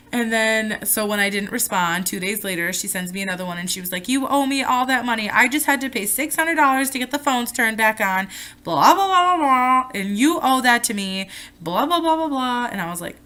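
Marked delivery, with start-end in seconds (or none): 4.1-12.7 mocking mom. Voicing mom's demanding email.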